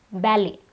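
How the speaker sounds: ballet ending on a vowel; silent T. Shown as a demonstration. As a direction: say ballet as BAL-ay. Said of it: "the T is silent".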